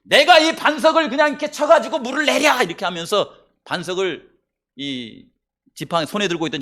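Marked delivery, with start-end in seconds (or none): 0.0-2.6 acted angry shout, high and loud; angry outburst. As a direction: raise the voice as an exasperated, angry leader. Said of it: "화가 이렇게 나가지고는".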